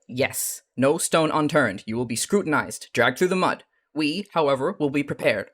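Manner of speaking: put-on forceful, loud pronouncement in a mixed Californian accent; imperfect Californian accent, emphatic and commanding; rough Californian accent. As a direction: drive each phrase home in a loose Californian accent. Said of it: "not even really properly Californian accent".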